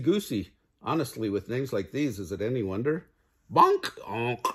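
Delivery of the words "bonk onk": sudden cartoon collision noise; sound effect. Narrator voices the birds bumping into the goose, bonk and honk.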